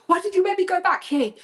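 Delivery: high, shrill-edged mock protest; retold frightened accusation. To the laughing author, high and panicked. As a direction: accuse her friend in panic.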